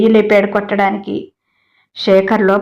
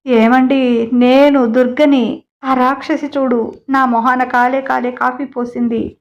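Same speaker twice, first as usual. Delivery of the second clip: crying complaint; 3 semitones higher than usual. Acted. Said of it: "అని ఏడుస్తోంది".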